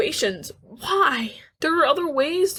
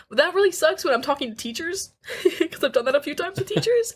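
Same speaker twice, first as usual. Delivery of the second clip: embarrassed giggle while talking; half-laughing, whispered confession; laughing through it; 5 semitones higher than usual. Real, not acted. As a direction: talk through a real laugh. Laughing about crying in front of teachers.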